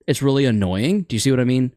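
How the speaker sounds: "annoying" and "mean" both lifted at the end; mock uptone. Shown as a demonstration. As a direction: keep ending on a questioning rise at "annoying" and "mean". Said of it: "ending your sentences like this".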